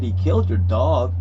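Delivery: retold disbelief, loud; startled echo question. Retelling own startled echo question.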